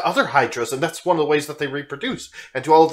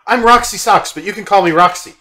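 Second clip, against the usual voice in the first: put-on excitable cat girl voice. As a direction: gush like a hyperactive kitten meeting new friends.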